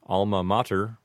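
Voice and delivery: alma mater with ah vowels; common alma mater. Shown as a demonstration. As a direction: say alma mater as AHL-muh MAH-ter. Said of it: "commonly hear pronounced as".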